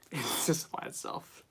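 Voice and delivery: breathless whispered cartoon dad line; Peter Griffin whisper. Streamer retries the cartoon dad line in a whisper. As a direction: barely voice the famous line. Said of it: "worst Peter Griffin voice".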